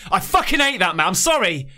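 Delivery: upset, lost for words; real anger breaking into exasperation; emotional anger. Real, not acted. Viewer upset by a baby's killing, emotional and angry. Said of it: "sorry about getting emotional".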